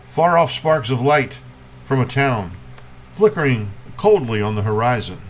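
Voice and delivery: measured poem reading with long pauses between images; poetry reading. Acted. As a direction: lift each opening phrase, let the line settle. Reads a poem to an audience.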